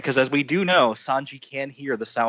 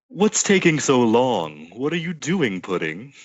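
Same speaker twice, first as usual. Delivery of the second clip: slow, impatient Big Mom; deep Big Mom voice; slower than usual. Acted. Big Mom waiting on Pudding, slow and impatient. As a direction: drag it out like an impatient queen. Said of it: "I did that deep voice".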